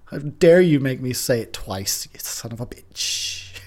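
loud, furious mock outburst; angry. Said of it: "she got so angry so fast".

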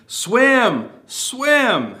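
high, loud shout to a drowning man; yelling swim. Retold or imitated. Preacher yelling to a drowning man from shore, loud shout. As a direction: call out from the shore. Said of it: "yelling out to someone drowning".

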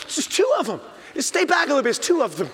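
a dad edging away from two cubs; nervous warning. Retold or imitated. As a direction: warn him back, uneasy. Dad warns son back.

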